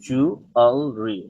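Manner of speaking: জুয়েলারি drawn out "ju-al-ri"; জুয়েলারি slow, without the "la"; slow model pronunciation. Shown as a demonstration. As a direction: break জুয়েলারি slowly into three parts. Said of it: "জুয়েলারি না এটা".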